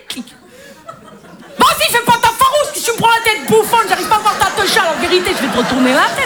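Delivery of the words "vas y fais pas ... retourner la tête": put-on rapid-fire hassling street accent; impatient street-accent rant; pushy street-accent gynecologist. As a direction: hustle the patient in a street accent. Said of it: "il y a des accents qui vont pas du tout avec certains jobs".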